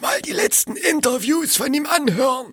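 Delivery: very high, broken-vocal-cord caricature; Modrow. Acted. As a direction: parody a politician with busted vocal cords. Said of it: "Da klingt er so".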